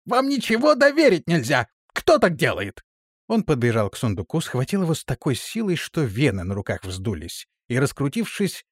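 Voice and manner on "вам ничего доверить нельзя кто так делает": high, loud furious scolding; voice shaking with anger. A narrator's reading. Captain furiously scolding guards who dropped the chest. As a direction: scold them, trembling with rage. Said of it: "Его голос дрожал от гнева".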